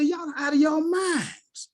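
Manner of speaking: playfully yelling at the staff; teasing store staff, high and slow; mock outburst. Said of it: "I say".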